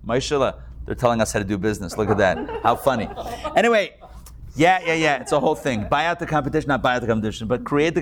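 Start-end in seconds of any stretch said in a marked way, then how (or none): 0.1-3.1 low, wry, amused murmur with a chuckle; amused aside. Retold or imitated. Hasidic man amused, confiding to his partner, low and wry. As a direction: shrug it off to your partner, chuckling. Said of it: "and says to him".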